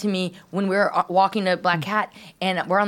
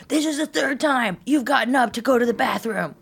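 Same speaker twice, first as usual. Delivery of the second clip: retold scolding, only slightly raised; mild mock yell; 3 semitones higher than usual. Woman imitating the date who yelled at her, mildly annoyed. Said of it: "he yelled at me".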